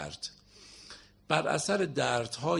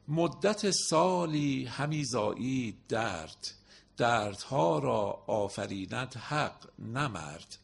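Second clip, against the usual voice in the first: very slow, drawn-out verse; poem recitation; much slower than usual. Acted. Teacher reciting the next Masnavi couplet to students, very slow. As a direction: stretch every word of the couplet.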